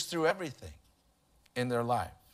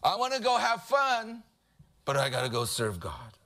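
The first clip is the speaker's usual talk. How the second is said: mock mourning; 3 semitones higher than usual. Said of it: "like people in mourning".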